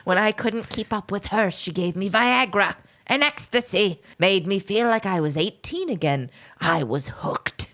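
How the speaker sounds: hammed-up aged confession, fading at the end; withering old man. Podcaster retelling the suspect's confession, as a withering old man. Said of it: "He's withering away in front of them".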